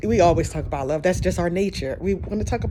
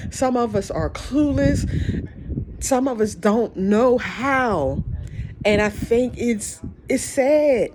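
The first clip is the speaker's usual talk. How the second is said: higher, emotional listing on the verge of tears; tearful; 4 semitones higher than usual. Real, not acted. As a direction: press on through rising tears. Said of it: "I'm starting to cry again".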